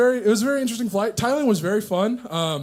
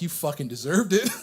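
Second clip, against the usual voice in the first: inner spite; 3 semitones lower than usual. Retold or imitated. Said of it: "but deep down I was like".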